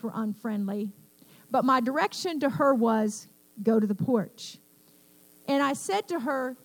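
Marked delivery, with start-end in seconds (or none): 3.6-4.6 retold firm order to a child; a grandmother's warning command; cautioning voice. Nana directs her grandchild away from the dogs, cautioning. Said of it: "I'm only using that voice".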